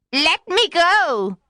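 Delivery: high, slow desperate witch cry. A narrator's reading. Witch caught by the fisherman, crying out high. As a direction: plead high and strained to be let go. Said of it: "she cried".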